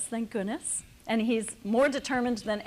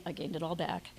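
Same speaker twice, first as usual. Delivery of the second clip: laughing; 4 semitones lower, 6 dB quieter than usual. Real, not acted. Joking about regaining lost weight.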